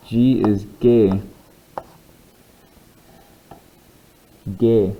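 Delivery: "G" with a hard g, as in "gay" in German. Shown as a demonstration. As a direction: say "G" with a hard g sound. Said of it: "that is a hard G".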